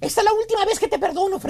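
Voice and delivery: imitated nagging wife; mock telling-off with a final warning; scolding wife. Wife forgives Freddy one last time, scolding. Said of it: "con voz regañona".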